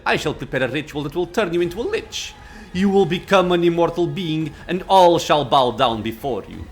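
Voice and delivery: proud, imperious lich; arrogant lich. Acted. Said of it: "Arrogance rings in the lich's voice".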